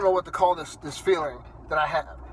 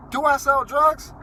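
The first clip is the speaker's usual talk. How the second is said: higher, slow, outraged question; incredulous repeat; 6 semitones higher, slower than usual. Real, not acted. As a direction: spell out how absurd the question is.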